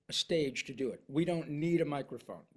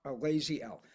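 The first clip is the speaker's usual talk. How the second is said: Tom Brokaw impression. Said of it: "he says".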